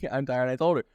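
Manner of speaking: rueful giggle at being tired; laughing. Real, not acted. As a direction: say it through a real laugh. Repeats tired, then laughs.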